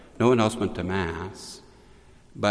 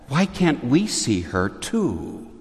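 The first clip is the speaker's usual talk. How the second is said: mild mock lament, higher and drawn out; retold lament; 4 semitones higher, slower than usual. Two companions lamenting to Adele, a mild retold lament. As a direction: plead slowly in a lightly acted lament. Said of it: "they lamented and said".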